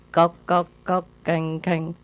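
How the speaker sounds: rhythmic knocking sound in the voice; wooden fish knocks. Retold or imitated. Monk beating the wooden fish during chanting, knocking sounds. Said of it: "they put the wooden fish".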